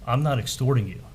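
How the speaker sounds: understated imitation of someone angry; retold anger. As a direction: quote an angry denial, only lightly acted. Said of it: "She, she got angry".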